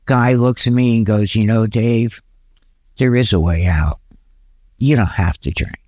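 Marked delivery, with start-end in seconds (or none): 1.3-5.8 low, understated reassurance; matter-of-fact. Retold or imitated. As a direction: state it simply and low. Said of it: "he said so matter-of-factly".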